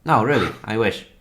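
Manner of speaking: mild, insincere protest; unconvincing dragon regret. Acted. Dragon assures the pleading adventurer, unconvincing regret. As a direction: protest sympathy without quite meaning it. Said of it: "You don't sound very convincing".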